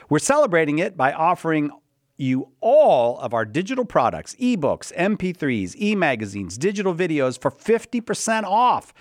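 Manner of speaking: reading an ad cold, with stumbles; rough first read of an ad copy; stumbling cold read. Real, not acted. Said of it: "I'm reading it cold".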